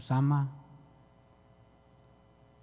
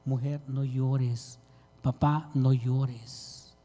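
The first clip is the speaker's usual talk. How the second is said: slow, gentle "no llores"; slow tender comfort; 3 semitones lower, much slower than usual. Retold or imitated. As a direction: soothe a grieving woman slowly. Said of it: "Lo mismo te puede decir".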